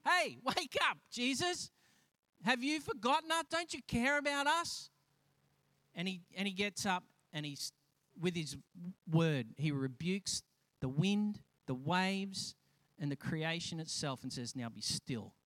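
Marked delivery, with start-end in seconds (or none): 0.1-4.9 high-pitched, pleading mock alarm; mock panic. Panicked disciples waking Jesus in the storm, acted alarm. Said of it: "The disciples are panicked". 14.5-15.3 low, soft, understated command; calm command. Acted. Jesus stilling wind and waves, quiet low command. Voices Jesus calming the storm.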